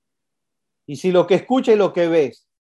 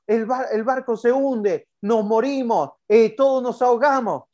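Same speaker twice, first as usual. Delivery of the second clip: panicked cries; 5 semitones higher than usual. Retold or imitated. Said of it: "le fueron gritando".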